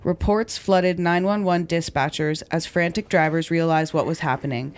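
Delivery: measured true-crime podcast read; narrating a crime story from a script; scripted story narration. A narrator's reading. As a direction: read the account clearly and deliberately.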